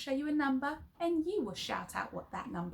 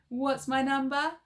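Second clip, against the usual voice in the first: shouting; 4 semitones higher, 8 dB louder than usual. Shown as a demonstration. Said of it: "shout them out in your funny voices".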